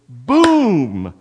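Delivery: loud, drawn-out "boom"; booming slam. Retold or imitated. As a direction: imitate a door slamming in the night. Imitates the slammed door waking them.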